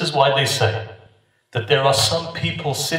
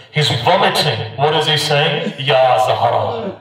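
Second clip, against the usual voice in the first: raised, fervent sermon delivery; higher-pitched devotional preaching; impassioned preaching; 4 semitones higher than usual. Real, not acted. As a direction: preach with mounting urgency, drawing out each invocation.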